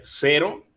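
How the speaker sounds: "cero" con la E más aguda; fuerza en la E. Shown as a demonstration. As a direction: recalca la E de "cero", como ejemplo. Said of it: "tiene la fuerza en la E". ("cero" con la primera sílaba marcada)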